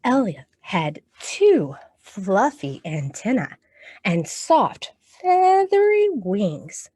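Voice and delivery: storytime picture-book reading; reading to children. Acted.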